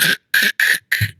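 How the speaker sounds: voiceless bursts of mock radio noise; imitated dead-band static. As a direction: mimic an empty band with unvoiced hissy bursts. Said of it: "ten meters was like".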